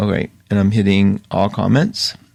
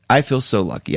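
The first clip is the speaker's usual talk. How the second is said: quieter, heartfelt repeat; softer, sincere. Shown as a demonstration. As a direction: say it again softly, meaning it.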